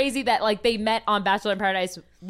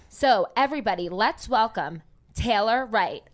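announcer welcome; 2 semitones higher than usual. Acted. Host brings the guest on.

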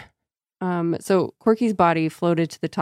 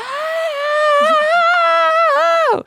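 long high shrieking wail; siren-like wail; 5 dB louder than usual. Acted. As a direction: wail like a dying ghost.

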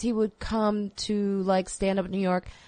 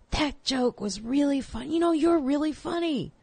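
retold praise; 8 semitones higher than usual. Quoting senior comic's keen praise.

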